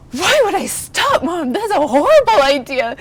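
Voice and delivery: put-on a little girl scandalized that mom said to quit, loud and high; indignant little girl. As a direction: play your younger self, offended. Child Claire protesting to mom.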